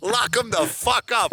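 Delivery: high, drawn-out comic demand; mock vengeful outburst. Mentor demanding his former pupil be jailed, mock vengeful outburst. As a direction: stretch it out high, hammed-up and vindictive. Acted outburst ending the fantasy.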